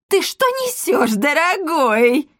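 very high, slow stunned disbelief; shocked. A narrator's reading. Wife stunned by her husband's words, high and slow. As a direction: stare and gasp it out. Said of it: "вытаращила глаза Эсмеральда".

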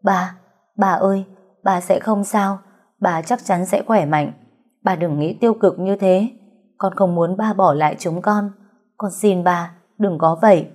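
tearful begging, rising toward the end; a daughter pleading through light sobs; understated crying plea; mild sobbing plea. Acted. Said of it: "khóc nức nở".

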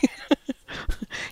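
high, airy giggle; laughter. Real, not acted. Joking about flitting like a bee, soft laughter. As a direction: giggle softly at your own remark.

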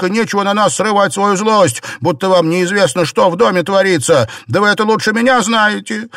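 high, loud furious yell. A narrator's reading. Maid yelling at her mistress, high and furious. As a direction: scream it back at her, fast in places. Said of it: "заорала".

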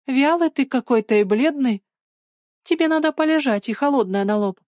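motherly concern. A narrator's reading. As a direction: tell him what he needs, like a mother. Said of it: "ну прямо как мама".

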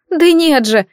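high, pitiful exclaim; exclaiming with a sob. Acted. Madina denying she was dumped, on the edge of sobs. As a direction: cry out, close to sobbing. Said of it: "воскликнула она и жалко всхлипнула".

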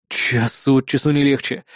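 low, slow grumble; weary resignation. Acted. Hero takes in the bad news, low slow resignation. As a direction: let it out slowly, resigned.

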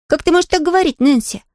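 put-on a young girl taking offence; indignant Pollyanna. Pollyanna protests to Nancy, indignant high girl's voice. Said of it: "возмутилась Полианна".

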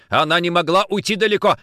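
shouting. Acted. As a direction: shout it across the room. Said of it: "крикнул Никитин помощникам". (крик помощникам)

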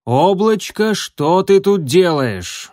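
menacing question to a runaway kit, slow and loud; stern demand. Acted. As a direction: scold the kit from on high. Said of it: "грозно спросил он".

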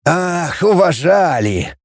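slow sarcastic drawl on уважали; drawn out. A narrator's reading. The captain mocking the lieutenant's word, drawn out. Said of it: "протянул капитан".

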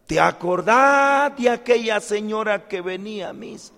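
acted-out churchgoer's recall question; gossiping parishioner. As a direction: stretch the start, trying to jog a memory. Acted parishioners gossiping about a woman.

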